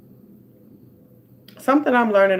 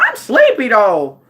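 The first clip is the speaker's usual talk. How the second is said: whiny sleepy reply; 2 semitones higher, 4 dB louder, slower than usual. Retold or imitated. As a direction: whine back that you're sleepy. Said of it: "And I'm looking like".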